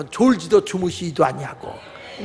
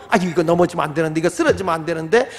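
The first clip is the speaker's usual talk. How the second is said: fretting parent; 2 semitones lower than usual. Acted. God fretting behind child.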